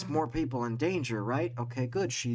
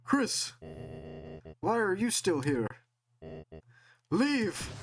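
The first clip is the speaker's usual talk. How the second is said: villain shouting; 2 semitones higher than usual. Acted. Villain yelling at the player.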